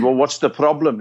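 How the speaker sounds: put-on Scouse accent; Liverpool accent. Comedian bluffing the manager, in a put-on Liverpool accent. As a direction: answer in your best Liverpool accent. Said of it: "in my best Liverpool accent".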